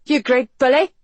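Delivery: high, loud indignant cry; woman's high-pitched outburst. A narrator's reading. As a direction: hurl it at a bully. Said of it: "the woman cried".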